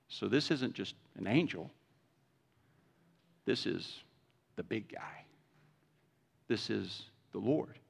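low, soft, hushed awe; whispered the big guy; awed realization. Acted. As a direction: realize it's God, breathlessly. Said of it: "So we're like".

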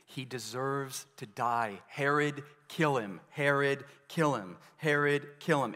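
a touch of angry mob chant; mock crowd demanding death. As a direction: mimic the crowd shouting kill him. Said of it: "They're saying".

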